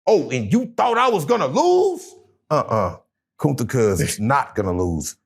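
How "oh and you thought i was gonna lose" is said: boxer trash talk. Pretend.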